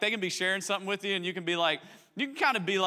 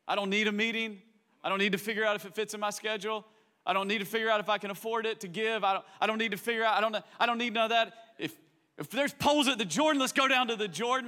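high, quick, impatient zeal; eager believer; 5 semitones higher than usual. Retold or imitated. New believer ready to go anywhere, eager. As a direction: brush off every excuse. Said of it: "Remember when it was just like".

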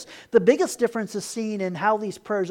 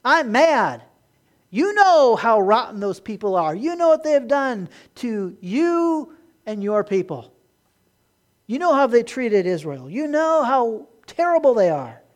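angry Jonah; 3 semitones higher, 6 dB louder than usual. Retold or imitated. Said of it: "And Jonah's like".

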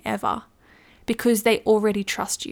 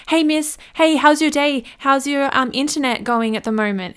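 fake-friendly hawker stopping a passerby; pushy street salesperson; 4 semitones higher than usual. Supermarket seller accosting a shopper, chirpy pitch. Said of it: "those people standing out there trying to sell you something".

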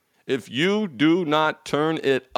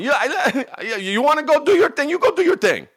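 mock indifferent wife; 11 semitones higher than usual. Mock wife letting him go.

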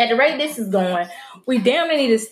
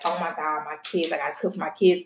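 worried murmur; 4 semitones lower, 5 dB quieter, faster than usual. Retold or imitated. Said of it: "I'm like".

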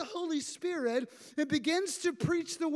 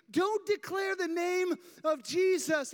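leaders barking an order, hammed-up; mock shout; 4 semitones higher than usual. Priests forbidding the apostles, mock shout. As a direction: snap the ban at them, a retold shout. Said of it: "They say".

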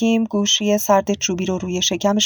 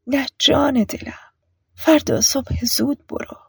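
higher, hushed and tender; tender whisper; 6 semitones higher than usual. A narrator's reading. Mother telling son to wait, tender whisper. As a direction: soothe him in a whisper.

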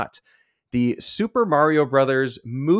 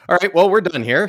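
mock sign-off; 7 semitones higher, 5 dB louder than usual. Joking sign-off shout.

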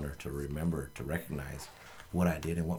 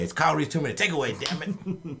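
announcer; 9 semitones higher, 7 dB louder than usual. Acted. Announces the segment with gusto.

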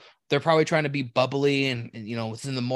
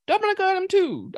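mock label reading; 5 dB louder than usual. Mimicking reading drink labels.

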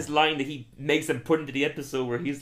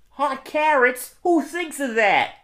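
much higher, slow cartoon voice; squeaky impression; 12 semitones higher, 5 dB louder, much slower than usual. Repeating the quiz on request, slow high squeak. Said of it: "Can you do it again?".

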